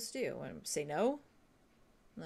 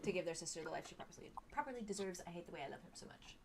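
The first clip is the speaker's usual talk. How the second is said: slow wise elder; 5 dB louder than usual. Acted. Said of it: "Read it in Alder's voice".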